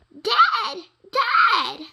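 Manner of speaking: high, loud shout for dad; calling out. Acted. Terrified boy calling his dad at night. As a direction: yell for help.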